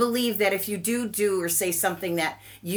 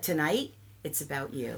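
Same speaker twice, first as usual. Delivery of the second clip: calm, not sarcastic; 5 semitones lower, 7 dB quieter than usual. Retold or imitated. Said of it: "It wasn't sarcastic. It wasn't snotty".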